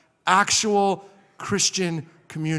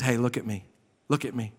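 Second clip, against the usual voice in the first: low, soft appeal for attention; earnest counsel; 4 semitones lower, 5 dB quieter than usual. Retold or imitated. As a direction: quietly get a younger man's attention. Older man counsels younger man.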